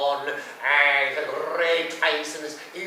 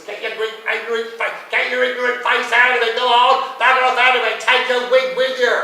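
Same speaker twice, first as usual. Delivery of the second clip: loud, higher rant telling him to get out; pretend shout; 6 semitones higher, 9 dB louder than usual. Pretend outburst at the man in the wig, loud and higher. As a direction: bellow it at the pest, higher and louder. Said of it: "what I wanted to say was".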